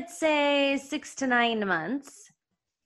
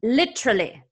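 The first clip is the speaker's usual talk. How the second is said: put-on husband's Mexican accent. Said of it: "This is how he says it".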